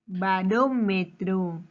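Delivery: Barómetro said slowly, weight on RÓ; slow teacher's Barómetro, RÓ marked; stress on RÓ. Shown as a demonstration. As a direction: draw out Barómetro, stressing the third-last syllable. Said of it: "¿Dónde lleva la mayor fuerza de voz?".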